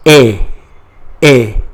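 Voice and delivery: A as French "et", a pure "ay" without T; silent T. Shown as a demonstration. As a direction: say A loud and short, as French et. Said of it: "We don't pronounce T".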